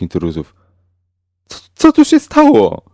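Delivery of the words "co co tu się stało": high, loud stammering yell; panicked shout. A narrator's reading. Mick yells at the grey-coated gunman, high and panicked. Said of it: "krzyknął Mick na niego".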